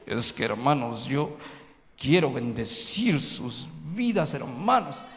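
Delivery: exaggerated holy-sounding preacher voice; mock pious preacher voice. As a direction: parody a preacher who changes his voice at the pulpit. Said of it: "cambiamos hasta el tono de la voz".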